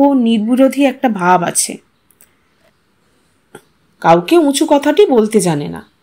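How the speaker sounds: ordinary delivery, nothing marked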